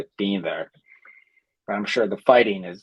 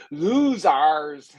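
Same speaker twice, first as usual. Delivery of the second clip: mock French accent; 4 semitones higher than usual. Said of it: "Look how he's".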